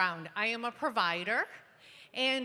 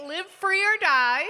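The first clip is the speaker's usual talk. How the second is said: motto belted out loud; proclaiming; 6 semitones higher, 10 dB louder than usual. Real, not acted. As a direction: declaim the slogan.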